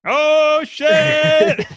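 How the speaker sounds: high startled yelp; surprised. Real, not acted. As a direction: caught off guard, blurt it out. Surprised by the quiz.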